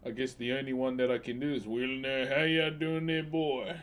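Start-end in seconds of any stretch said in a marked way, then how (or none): 1.7-3.8 drawling Southern American cowboy voice; American accent. Pretend. Streamer obliging a viewer's request, putting on an American accent. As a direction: put on a folksy American accent. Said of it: "Can you do an American accent?".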